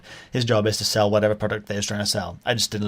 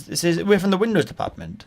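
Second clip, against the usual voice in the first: higher-pitched imitation Indian accent; 6 semitones higher than usual. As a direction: mimic an Indian-accented phone seller, lightly. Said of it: "he definitely had an Indian accent".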